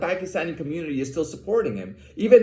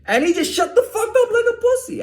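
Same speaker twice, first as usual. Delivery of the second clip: high, laughing as he tells it; gloating laugh. Real, not acted. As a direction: crack up at the punchline. Gloating over the shut-up guy.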